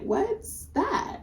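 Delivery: asked way up high, light and wary; high curious question. Retold or imitated. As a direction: pop it up high like a nervous tourist. Tourist asks about the flask.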